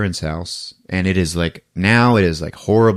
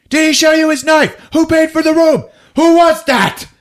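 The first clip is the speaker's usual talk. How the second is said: high, loud, panicky rapid questions; frantic questions; 5 dB louder than usual. Retold or imitated. Pacino, punched, pestering cops with panicky questions. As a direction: babble confused and rattled.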